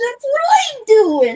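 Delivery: loud, sassy New York cab driver voice. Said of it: "Need a little more New York cab driver sass".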